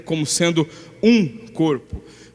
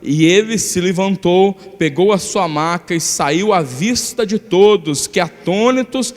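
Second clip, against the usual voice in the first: scripture reading. Acted. Pastor reading Mark two aloud, in a steady scripture reading. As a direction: read the passage out to the church. Reads the Gospel passage.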